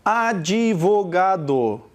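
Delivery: Advogado drawn out slowly as A-di-vo-ga-do; syllable by syllable. Shown as a demonstration. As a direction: sound out Advogado in five slow beats. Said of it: "Quantas sílabas você pronuncia?".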